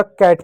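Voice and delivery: कैट said as one syllable with a short open a; whole-word reading. Shown as a demonstration. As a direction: blend the sounds into कैट. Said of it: "इसको क्या पूरा पढ़ा जाएगा". (पूरा शब्द "कैट")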